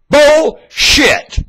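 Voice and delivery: high, loud outraged yell; angry shout. Real, not acted. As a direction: spit it out in disgust.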